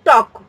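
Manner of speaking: टॉक said with no l sound, like English talk; टॉक without the l; silent l demo. Shown as a demonstration. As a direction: say टॉक as tawk, dropping the l. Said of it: "टॉल्क तो नहीं बोलते ना हम लोग, टॉक बोलते हैं".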